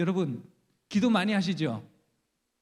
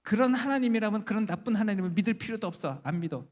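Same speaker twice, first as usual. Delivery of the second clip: defiant rejection; 4 semitones higher than usual. Acted. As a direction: act out a mother renouncing her faith. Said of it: "따져요, 천사한테". (따지듯 단호하게 내뱉는 말투)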